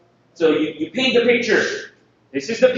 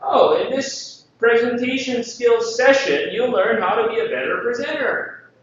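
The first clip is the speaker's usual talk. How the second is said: mock pompous; 3 semitones higher than usual. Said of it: "Don't go all academic or all show business".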